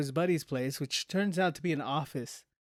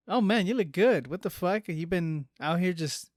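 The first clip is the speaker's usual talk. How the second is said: impressed surprise; 3 semitones higher than usual. Retold or imitated. Friend surprised by his outfit, impressed. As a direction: gush over how sharp he looks. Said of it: "And I'm like".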